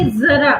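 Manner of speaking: जरा with a buzzing z, zara not jara; nukta pronunciation. Shown as a demonstration. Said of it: "तो अपन क्या उच्चारण करेंगे?".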